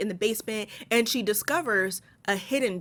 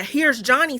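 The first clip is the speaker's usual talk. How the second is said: catchphrase callout; 5 semitones higher, 5 dB louder, slower than usual. Acted. Shouts the film catchphrase.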